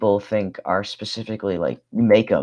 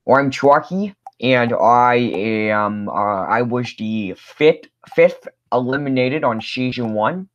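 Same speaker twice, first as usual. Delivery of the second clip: Chalky voice; 3 semitones higher, slower than usual. Acted. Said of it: "can you still voice Chalky".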